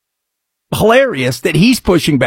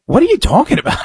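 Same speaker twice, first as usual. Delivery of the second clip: incredulous; 7 semitones higher, much faster than usual. Retold or imitated. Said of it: "And I'm like".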